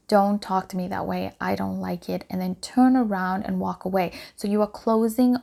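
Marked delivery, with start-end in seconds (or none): 0.1-2.3 very calm. Shown as a demonstration. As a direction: stay cool and final, no heat. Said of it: "You have to be very calm and say".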